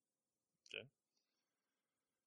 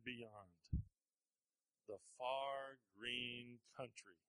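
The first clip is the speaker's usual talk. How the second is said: Gandalf voice; 2 semitones higher, 4 dB louder, slower than usual. Acted. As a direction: recite it grandly, then slow and hushed. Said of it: "Gandalf said this".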